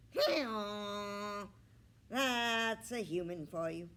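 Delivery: loud braying donkey, high and far. A narrator's reading. Romeo the donkey brays at Ernest. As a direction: bray the words like a donkey. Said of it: "Romeo hee-hawed".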